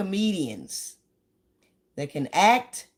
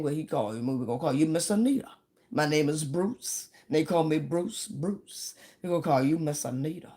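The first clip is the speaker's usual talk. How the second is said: imitating Bruce Bruce. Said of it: "That's exactly how he sounds".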